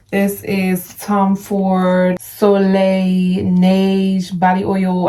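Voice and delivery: slowly sounding out Soleil Neige, unsure of the French; drawn-out, careful French name; careful name reading. Real, not acted. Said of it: "I'm probably tearing up the pronunciation".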